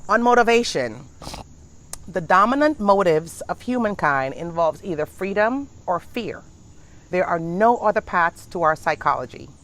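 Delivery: measured, deliberate reading of a text; reading aloud. Acted. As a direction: read it out like a lesson. Reads a motivation text aloud.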